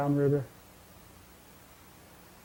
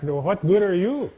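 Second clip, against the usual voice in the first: hollering back; 4 semitones higher, 4 dB louder than usual. Acted. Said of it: "Frog would holler back".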